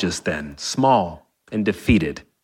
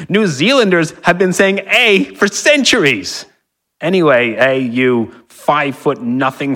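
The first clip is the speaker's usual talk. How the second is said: put-on New Zealand accent; 4 semitones higher, 3 dB louder than usual. The speaker, a New Zealander, angrily argues.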